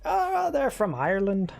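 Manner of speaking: shaky attempt at an Irish accent. Streamer jokes North Point is Ireland, attempted Irish accent. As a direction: try a hammed-up Irish lilt. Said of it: "I can't do an Irish accent".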